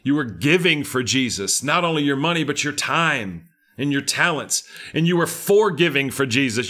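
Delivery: rousing preacher cadence; fervent sermon delivery; preaching. Acted. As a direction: drive it home to the congregation. Preacher exhorting congregation.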